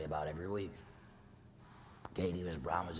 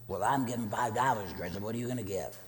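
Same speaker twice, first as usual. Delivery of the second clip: pestering little sister; 6 semitones higher, 6 dB louder than usual. Retold or imitated.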